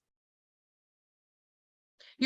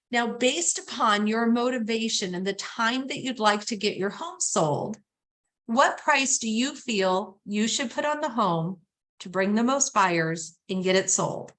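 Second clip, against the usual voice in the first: neutral, no emotion. Shown as a demonstration. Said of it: "I'm gonna say it like you're Switzerland, you're neutral".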